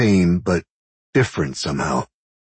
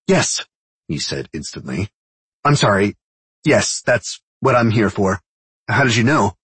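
put-on eager young man; 4 semitones higher than usual. A narrator's reading. Young escort, eager reply.

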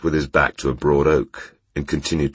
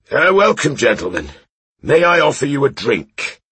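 put-on high, loud drunken welcome; a cheery drunk playing host; tipsy host; 12 semitones higher, 5 dB louder than usual. Drunk knight greets strangers.

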